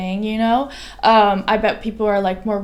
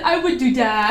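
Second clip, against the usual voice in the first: laughing quote; 2 semitones higher than usual. Retold or imitated. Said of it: "He said, he said".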